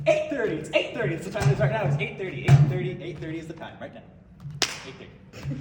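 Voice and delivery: loud repeated eight thirty; insistent repetition. Retold or imitated. Prankster answering the New York caller about time, loud and insistent. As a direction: hammer the answer over and over. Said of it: "So I said".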